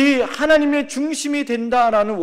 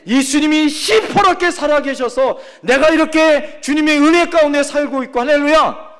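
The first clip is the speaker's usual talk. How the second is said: louder, higher preaching voice; fervent preaching; 5 semitones higher, 5 dB louder than usual. Acted. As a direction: rouse the congregation to confess. Preaching at full force.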